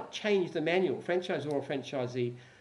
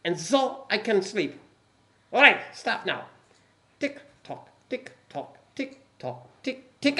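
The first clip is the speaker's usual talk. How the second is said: stern German commandant voice; slow menacing German officer; German accent; 3 semitones higher, 4 dB louder, slower than usual. Acted. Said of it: "the accent as well".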